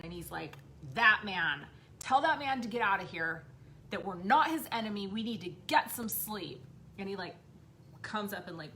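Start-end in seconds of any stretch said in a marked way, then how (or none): 0.9-6.6 put-on insistent child. Child repeats demand, retold.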